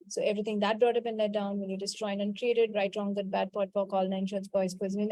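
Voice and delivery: low-key, run-together list; rote recitation. Real, not acted. Healer to her class, reciting a clearing formula by rote. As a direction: recite a memorised formula smoothly.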